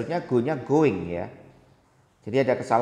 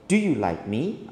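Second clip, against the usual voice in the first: "do you like me?" as a yes-no question rising at the end; rising intonation; slower than usual. Shown as a demonstration. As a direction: let "me?" swing upward. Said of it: "intonasinya harus naik".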